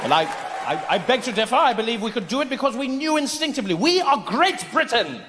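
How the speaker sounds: put-on haughty British accent, stammering into a grand finish; pompous British coloniser. British coloniser defends his greatness to Indian local, pompous. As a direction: draw out the last boast, very British.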